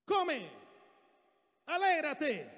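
loud, high, separated orders; bossy wife's command. Acted. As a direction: command him like a domineering wife. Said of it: "La mujer le dijo así".

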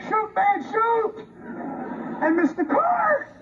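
high, mock-excited egging on; mocking urge. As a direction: ham up the cheering shooter, then scoff. Mocking the shooter's story.

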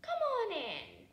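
loud, high welcoming boom; booming giant. A narrator's reading. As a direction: welcome her in loudly. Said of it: "Giant Jim said".

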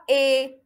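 إي held level and loud as "é"; wrong I, as é. Shown as a demonstration. Teacher showing what not to say, level loud إي as é. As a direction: hold إي as é, the sound to avoid.

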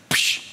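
slap noise. Retold or imitated. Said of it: "you give me a tight slap".

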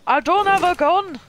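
high, loud panicked yell; panicked cry. Real, not acted. Streamer with no gun as an enemy lands, panicking loudly. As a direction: yelp in alarm, no weapon. Enemy landing, she's unarmed.

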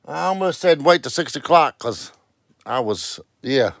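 panting between words after walking in; out of breath. Real, not acted. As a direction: talk while catching your breath. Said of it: "breathing hard".

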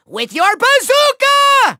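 high, slow, drawn-out villain cry; commanding cry. Acted. Villain sending Bazooka Doomlander to destroy, bombastic cry. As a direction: bellow it as a grand battle order. Villain orders minion to attack.

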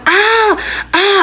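high-pitched mock cry of pain; retold scream. Daughter reacting to being scratched, mock scream. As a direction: imitate a pained "ah", pitched well up. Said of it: "I started screaming and kicking".

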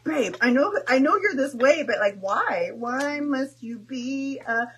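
husband teasing his wife playfully; husband's voice. Retold or imitated. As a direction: tease her like a fed-up but fond husband. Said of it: "He's like".

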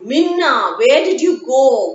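father scolding his lost daughter; worried scolding. Acted. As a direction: scold her out of fear. Father scolding after finding her.

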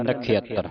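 ਨਖਿਅਤਰ with "khia" and a tight double t; tight, doubled t. Shown as a demonstration. Teacher giving students the pronunciation, ਨਖਿਅਤਰ with tight "tt". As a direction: press the t in ਨਖਿਅਤਰ. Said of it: "ਇਹਨੂੰ ਕੱਸ ਕੇ ਬੋਲਣਾ".

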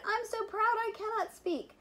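high, breathless with pride; overjoyed. Acted. Teacher overjoyed at the pupils' score, pitched high. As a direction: gush it out, almost too proud to talk. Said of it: "she shouted".

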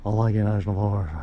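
put-on fast old newsreel announcer; 1950s narrator. Shown as a demonstration. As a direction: rattle it off like a newsreel. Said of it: "retake in announcer voice".

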